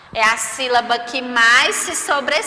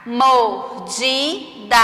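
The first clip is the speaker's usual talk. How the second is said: MORDIDA in three slow, separate syllables; much slower than usual. Shown as a demonstration. Teacher reading words for pupils, syllable by syllable. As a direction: break "mordida" up slowly, evenly. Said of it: "O que você percebeu ao pronunciá-las".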